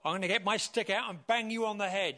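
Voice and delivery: fast mock threat; acted threat. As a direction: rush at them as a protective shepherd. Shepherd threatens attacker with his stick.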